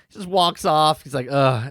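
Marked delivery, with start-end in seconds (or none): 1.3-1.7 mock grunt. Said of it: "he grunts and walks off".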